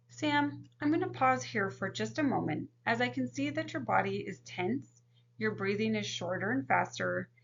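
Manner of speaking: gentle, soothing therapist talking to a client; calm counselor voice. Shown as a demonstration. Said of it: "here is a demonstration of box breathing".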